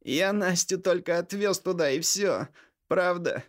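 high, desperate pressed voice; desperate through the teeth. A narrator's reading. Vitalik swears to his furious brother, high and desperate. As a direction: squeeze the words out in desperation. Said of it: "отчаянно процедил Виталик".

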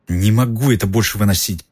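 muttered through chattering teeth; shivering with cold, teeth rattling. Acted. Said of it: "пробормотал Рон, стуча зубами".

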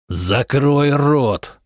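slow, menacing growled order. A narrator's reading. Husband silencing his wife with a slow, menacing growl. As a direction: growl it slowly like a threat. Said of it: "прорычал он".

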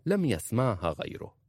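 ordinary delivery

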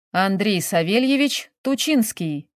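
full name, each word distinct; crisply enunciated. A narrator's reading. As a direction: enunciate "Андрей Савельевич Тучинский" word by word. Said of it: "громко отчеканил". (отчеканить «Андрей Савельевич Тучинский» по словам)

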